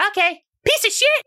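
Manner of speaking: put-on very high little-kid voice; innocently curious, squeaky child; Tiffany. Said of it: "Tiffany's just looking at you like".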